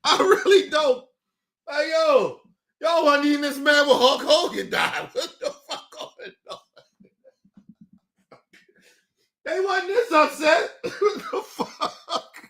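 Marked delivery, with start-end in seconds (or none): 2.8-12.3 words dissolving into real laughing. Real, not acted. Teasing them over Hulk Hogan, cracking up. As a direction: break into laughter mid-sentence. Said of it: "And I'm laughing because I love it".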